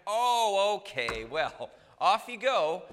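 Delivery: exaggerated loud, high "oh"; breezy, hammed-up send-off; mock easygoing permission. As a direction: play a too-agreeable officer letting it slide. Mock officer waving off a robber.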